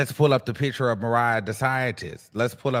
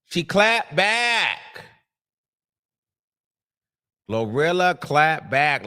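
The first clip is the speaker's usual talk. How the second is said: drawn out; slower than usual. Real, not acted. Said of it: "Let's get into the clap back".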